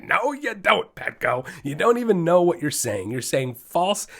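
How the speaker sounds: mock shouting at Petco; imitating a scream. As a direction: call out the store in a hammed-up yell. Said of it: "I just start screaming it".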